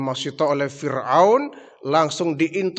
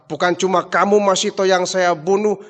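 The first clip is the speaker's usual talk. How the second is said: angry threat; 4 semitones higher, 5 dB louder than usual. Acted. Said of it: "Fir'aun semakin marah".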